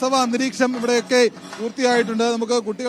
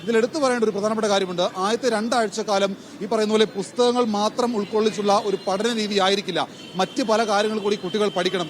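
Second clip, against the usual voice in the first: steady reporter's delivery to camera; live news report; 2 semitones lower, 3 dB quieter than usual. Acted.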